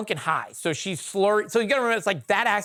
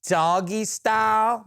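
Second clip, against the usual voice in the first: slow, disbelieving repeat of "doggy style"; incredulous echo; much slower than usual. Retold or imitated. Repeating her words back to the listeners in disbelief. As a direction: drag out "doggy style" in shock.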